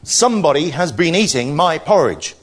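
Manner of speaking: loud Father Bear growl; great growly voice. Acted. Father Bear sees his used bowl, growly voice. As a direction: growl it out, big and forceful. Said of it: "said in his great growly voice".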